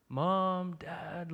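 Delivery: half-hearted drawn-out call; mock calling out. Preacher imitates scared kid at night calling parents, muted drawn-out call. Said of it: "like, you yell out".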